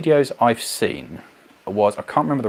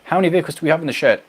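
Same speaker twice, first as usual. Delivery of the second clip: ordinary delivery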